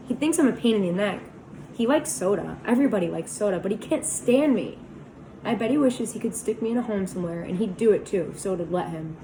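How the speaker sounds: put-on boy bursting out bitterly about his brother; bitter outburst. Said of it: "I burst out bitterly".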